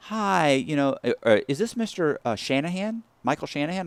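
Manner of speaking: lightly voiced cheerful banker; bank lady. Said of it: "this chick goes".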